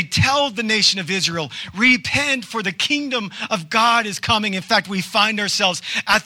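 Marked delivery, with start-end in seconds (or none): 1.7-4.5 prophet's call. Acted. Prophets call Israel to repent.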